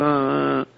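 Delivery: faint, dazed mock groan; semi-conscious groan. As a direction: groan like a half-conscious beaten man. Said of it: "semi-conscious".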